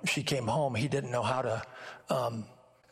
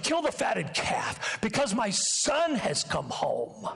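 rising, eager commands, higher; joyful father; 3 semitones higher than usual. Acted. Father ordering servants to welcome son home, jubilant. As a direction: call out the orders with a father's delight.

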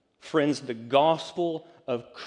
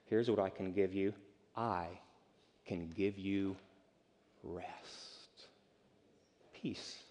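softer and lower, ending breathed; fading to a whisper; 4 semitones lower, 7 dB quieter, slower than usual. Acted. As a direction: let it sink to a whisper on rest. Jesus speaks, fading to whisper.

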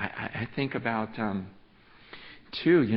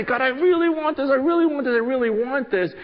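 imitating a pleading pray-er; 8 dB louder than usual. Mock quote of begging prayer.

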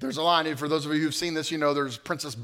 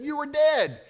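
higher and louder, an emphatic mock cry; louder disbelief; 13 semitones higher, 6 dB louder, slower than usual. Heroine insisting to her love, louder mock cry. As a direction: lean into the words, louder this time. Woman's shocked cry to him.

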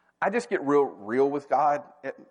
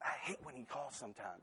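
much softer, muttered complaint to his wife; retold grumble; 20 dB quieter than usual. Telling his wife about the call, a soft mock grumble. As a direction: grumble it under your breath, half-joking. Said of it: "I think I said to Holly".

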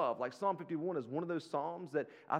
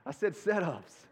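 slow, louder "set-ups"; stress on set-ups; 5 dB louder than usual. Real, not acted. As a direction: spell it out firmly, leaning on "set-ups". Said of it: "I didn't say sit-ups".

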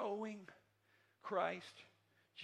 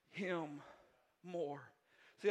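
ordinary talk

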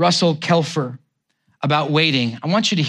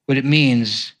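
measured, heartfelt reading of a poem. Acted. Pastor reading a poem on waiting to the congregation, heartfelt.

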